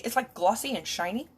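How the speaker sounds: normal talking voice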